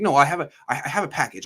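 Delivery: imitating a flustered coach, stumbling restarts. Coach cornered by a reporter, flustered. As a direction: stammer out a retold excuse. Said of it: "so he was all flustered".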